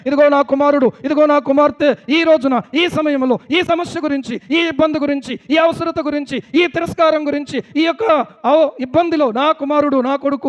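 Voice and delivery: fervent preaching. Real, not acted. Preacher listing troubles God records for his children, fervent preaching. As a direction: build item upon item with insistence.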